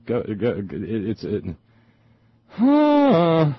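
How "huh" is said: exasperated noise. Real, not acted. Exasperated at what he reads.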